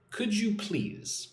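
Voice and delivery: slow, clear teacher demo; slow model phrase. Shown as a demonstration. Teacher modelling a phrase for learners, slow and clear. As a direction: say it slowly for the class to copy. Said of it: "Repeat after me".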